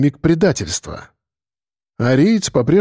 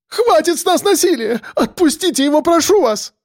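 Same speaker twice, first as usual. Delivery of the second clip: отчаянная мольба. A narrator's reading. Евгения умоляет, высоко.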